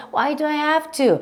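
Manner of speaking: high, drawn-out complaint; put-on exasperation; annoyed protest. Shown as a demonstration. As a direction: whine it slowly in annoyance. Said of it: "승질낼 때 맨날 쓰세요".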